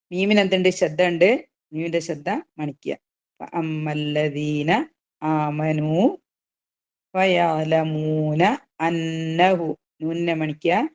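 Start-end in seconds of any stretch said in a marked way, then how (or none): 3.4-9.8 gentle Quranic recitation. Shown as a demonstration. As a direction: recite it slowly and carefully. Recites verse.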